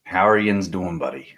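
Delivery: put-on Yinzer greeting in a Pennsylvania accent; mild Pennsylvania accent greeting; thick Pennsylvania accent. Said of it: "I'm gonna go thick Pennsylvania accent".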